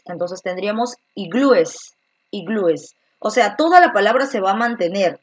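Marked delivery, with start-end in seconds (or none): 0.0-2.9 iglúes with a clear es ending; careful plural iglúes. Shown as a demonstration. Teacher showing students the plural iglúes, clearly. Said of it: "le añadimos es".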